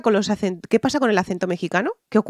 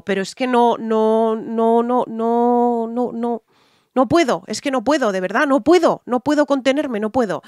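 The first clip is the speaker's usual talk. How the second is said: rising exasperation, a string of no's; can't hold back anymore; exasperated outburst; 2 semitones higher than usual. Real, not acted. Ranting at the singer on camera, exasperated. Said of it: "intento contenerme".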